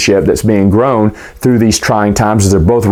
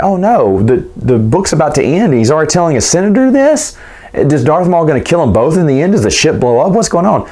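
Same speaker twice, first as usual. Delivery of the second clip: retold panic; 6 semitones higher than usual. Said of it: "'Cause I was like".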